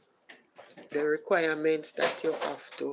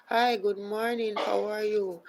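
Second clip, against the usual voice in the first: higher, louder hello to a newcomer; calling out a greeting; 5 semitones higher, 4 dB louder than usual. Real, not acted. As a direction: break off to greet someone brightly and loudly. Greeting someone joining the livestream.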